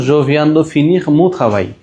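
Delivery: slow, careful French; slow model sentence. Shown as a demonstration. Teacher reading an example sentence for learners, slow. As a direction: model it word by word. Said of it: "এইভাবে বারে বারে practice করতে হবে".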